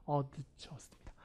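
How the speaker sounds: adjust very slow and soft, stress on -just; soft final stress. Shown as a demonstration. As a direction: gently draw out adjust. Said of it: "강사 뒤에 있으니까". (adjust 천천히 뒤 강세)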